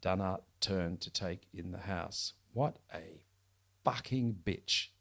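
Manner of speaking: reading a crime novel aloud; steady, measured storytelling voice; story narration. A narrator's reading. Author reads novel excerpt aloud.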